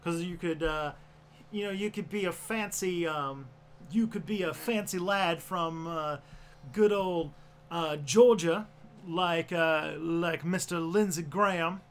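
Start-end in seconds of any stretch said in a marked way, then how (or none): 1.5-11.8 genteel Georgia accent; refined Southern gentleman; fancy Southern accent. Shown as a demonstration. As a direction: play a fancy lad from Georgia. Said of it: "the South has all sorts of accents".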